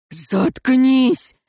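громкий рявк; barked shout. A narrator's reading. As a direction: bark him into silence. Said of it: "гаркнул смотритель".

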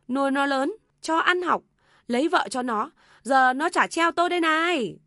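high, loud aggrieved lament; loud wailing. A narrator's reading. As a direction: wail out a mother's grievances. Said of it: "Bà Tâm lại gào to hơn". (mẹ gào to kể lể ai oán)

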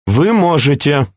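high-pitched, insistent appeal; exclaiming. A narrator's reading. Princess urging her uncle to help, exclaiming. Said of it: "воскликнула Флоранс".

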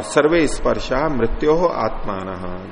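slow Sanskrit recitation. Acted. Sanskrit verse chanted slowly.

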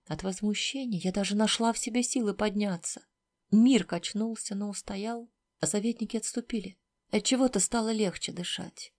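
ordinary delivery, nothing marked

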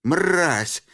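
высоко, громко, медленно; играет ярость; яростный крик. A narrator's reading. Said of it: "закричал он, вспомнив о роли". (яростный крик Рябого)

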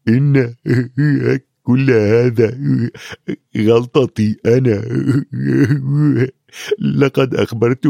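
halting, broken by long pauses, lightly tearful; a giant gulping out guilt between sobs; sobbing. Acted. Hagrid blaming himself to Harry, tearful and halting. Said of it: "انفجر في البكاء".

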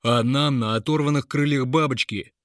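loud hurt outburst; offended. A narrator's reading. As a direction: fling it out, deeply offended. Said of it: "обиженно откликнулся Лапик Бригар".

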